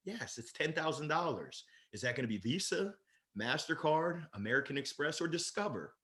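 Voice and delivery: soft, cool, matter-of-fact close; calm assumptive close. Shown as a demonstration. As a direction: ask which card as if it's already decided. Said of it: "It's the assumptive close right there".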